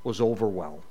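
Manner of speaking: solemn psalm reading; scripture reading. Acted. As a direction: read it like a lament from the pulpit. Reads psalm aloud before teaching.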